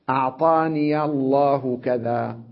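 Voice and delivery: slow أعطاني said as a'taniya, linked on; ya with fatha. Shown as a demonstration. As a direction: open the ya of أعطاني into الله. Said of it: "يفتح الياء". (فتح الياء في الوصل)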